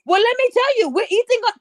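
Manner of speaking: high, sing-song mock pitch as the woman; sarcastic high voice making the story sound stupid; mock woman's reply. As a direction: parody of the woman asking for a bed. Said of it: "What can I do for you".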